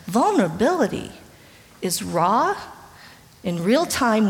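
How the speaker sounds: rising pulpit intensity; emphatic point. Real, not acted. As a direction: hammer home each word. Preacher drives key point.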